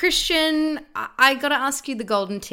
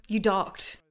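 gasp. Real, not acted. Gasping at a friend's confession.

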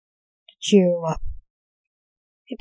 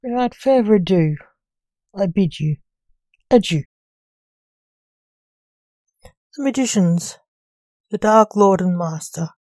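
loud, theatrical podcast introduction; grand announcer intro; 7 dB louder than usual. Acted. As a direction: announce it with gothic ceremony.

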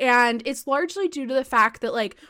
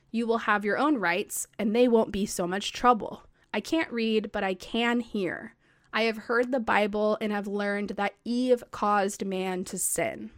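put-on a calm recital of an old speech; reading a speech aloud; 2 semitones lower than usual. Shown as a demonstration. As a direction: read it out plainly, like quoting the original text. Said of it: "I will read that out loud to you".

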